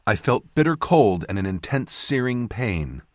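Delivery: ordinary delivery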